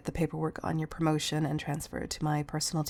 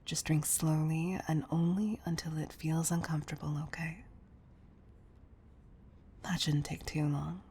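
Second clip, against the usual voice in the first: soft, intimate coaxing; quiet, caring murmur to a loved one; tender reassurance; 7 dB quieter than usual. Acted. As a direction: soothe them gently, voice lowered in volume.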